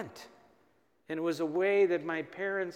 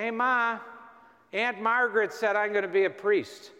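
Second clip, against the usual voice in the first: retold boyish protest to Ma; 3 semitones higher than usual. Boy protesting to his mother.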